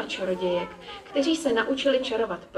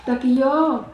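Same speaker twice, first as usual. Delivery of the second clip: louder, higher happy yes; delighted; 4 semitones higher, 5 dB louder than usual. A narrator's reading. Girl agreeing to magic school, delighted. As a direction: cheer it with sudden joy. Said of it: "zaradovala se".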